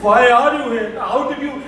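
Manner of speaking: imitated hysterical shouts; screaming. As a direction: scream at an intruder to get away. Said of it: "She kept on shouting, screaming".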